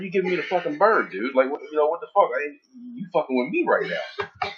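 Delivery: hammed-up indignant challenge; retold road rage. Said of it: "I was like".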